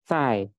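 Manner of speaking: "Zai" starting with a ch-like C, falling; Z read as C. Shown as a demonstration. Teacher shows how Z is read, C-like "Zai". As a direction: begin "Zai" with a crisp C. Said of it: "Z dibacanya dengan C".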